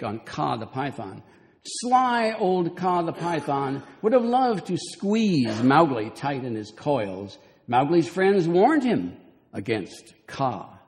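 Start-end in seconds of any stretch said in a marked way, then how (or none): 1.6-10.8 slow, higher, sing-song storybook parody; mock the Disney text with a slow, cutesy read. Reading Disney's take on Kaa, slow cutesy mockery.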